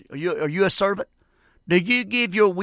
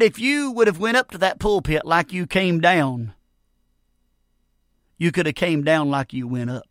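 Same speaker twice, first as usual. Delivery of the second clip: lightly voiced old preacher, measured with a long pause; a hint of an old preacher's deliberate counsel. Old preacher advising the failed young preacher, lightly voiced and deliberate. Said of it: "one of the old preachers".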